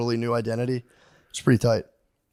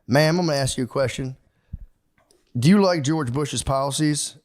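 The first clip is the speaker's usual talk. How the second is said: polite Texas gentleman; 3 semitones higher than usual. Retold or imitated. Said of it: "this Texas gentleman, so nice".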